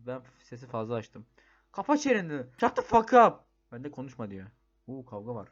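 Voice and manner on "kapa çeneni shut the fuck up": loud, higher yell to shut them up; furious shut-up yell; angry shout. Real, not acted. Yelling back at game's shouting character.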